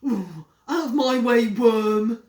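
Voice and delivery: loud bossy yell; shouted. Acted. Henry yelling at Peter to leave, loud shout. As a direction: bark him out of the room. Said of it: "shouted Henry".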